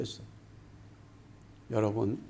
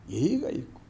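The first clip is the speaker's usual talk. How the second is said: ordinary talk, nothing marked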